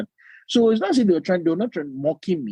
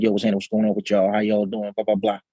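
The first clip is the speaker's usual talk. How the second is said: low-pitched African American slang voice; African American speech; 6 semitones lower, faster than usual. Acted. Chatting with his African American friends, in African American speech. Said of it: "when I'm with my African American friend".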